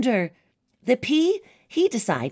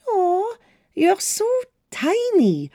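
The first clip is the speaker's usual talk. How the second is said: high, slow, sweet princess voice; cartoon princess; 10 semitones higher, slower than usual. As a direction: coo it like a storybook princess. Princess coos at the mouse.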